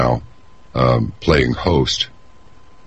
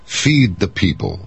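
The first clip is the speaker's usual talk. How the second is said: mock slogan; 6 semitones higher, slower than usual. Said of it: "it's like".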